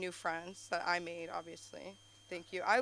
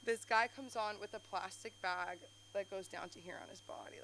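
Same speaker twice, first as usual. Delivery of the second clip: usual speaking voice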